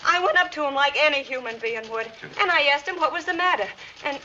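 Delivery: high, tearful pleading; pleading distress. Acted. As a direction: beg them to believe you. Molly pleads her innocence, distressed.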